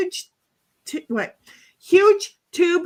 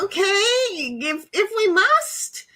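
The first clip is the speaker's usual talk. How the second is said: drawn-out, higher, reluctant agreement; grudging consent; 6 semitones higher, much slower than usual. Retold or imitated. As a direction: give in slowly, as if put upon. Grudging consent to ice skating.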